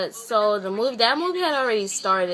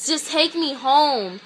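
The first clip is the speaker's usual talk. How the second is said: retold huffy demand, slow and raised in pitch; kinda mad; 4 semitones higher, 4 dB louder, slower than usual. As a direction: draw each word out in annoyance. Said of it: "I'm just kinda mad".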